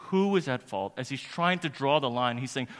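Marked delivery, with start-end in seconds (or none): 0.1-0.9 loud, raised-pitch demand; impassioned questioning. Retold or imitated. Preacher voicing a lawyer seeking blame, impassioned demand. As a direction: throw the question out forcefully.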